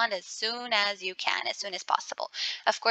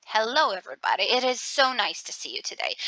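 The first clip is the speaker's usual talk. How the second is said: sarcastic; faster than usual. Shown as a demonstration. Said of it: "you can feel that I have some sarcasm in my voice".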